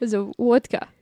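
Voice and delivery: put-on Russian accent. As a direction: try out a mock Russian accent. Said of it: "do the Russian accent".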